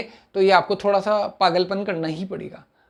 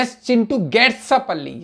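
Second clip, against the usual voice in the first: slow model sentence; 3 semitones higher, much slower than usual. Shown as a demonstration. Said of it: "मैंने कहा".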